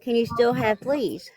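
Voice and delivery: finishing the question without teeth; toothless. Real, not acted. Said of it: "I don't have my teeth in".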